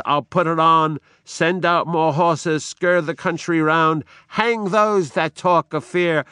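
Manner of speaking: rally them with fury; commanding shout. Acted. Macbeth ordering horses and hangings, commanding shout.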